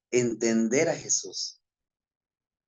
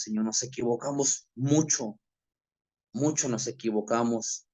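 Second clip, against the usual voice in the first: humble, earnest spoken prayer; closing prayer. Acted. (oración humilde y sincera)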